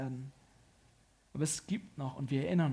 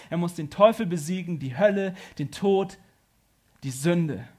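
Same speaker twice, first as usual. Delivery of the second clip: loud, emphatic preaching; forceful preaching; 4 semitones higher, 7 dB louder than usual. Real, not acted. Preacher declaring what Jesus must defeat, forceful preaching. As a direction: hammer out each point with force.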